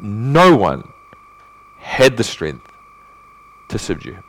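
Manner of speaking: NO ONE set apart and leaned on, then pauses; categorical stress. Shown as a demonstration. Preacher showing how absolute the verse is, categorical stress. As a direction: stretch and punch "No one", pause between phrases. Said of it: "Notice how categorical this language is".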